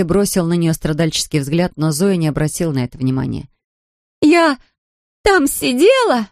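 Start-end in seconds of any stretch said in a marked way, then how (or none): 4.2-6.3 put-on high, slow drunken shout; shouting drunkenly. A narrator's reading. Drunk Larisa keeps shouting at Ramsey, high and slow. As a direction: keep shouting it out. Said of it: "продолжала кричать Лариса".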